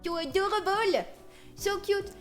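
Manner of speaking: cooing. Real, not acted. Cooing over her little shark drawing.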